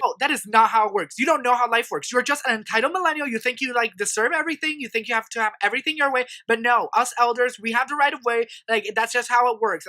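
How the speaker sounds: mild mock rant, pitched slightly up; rude scolding. Old man lecturing a millennial about right of way, mock rude scolding. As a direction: imitate a lecturing elder. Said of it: "he's being rude".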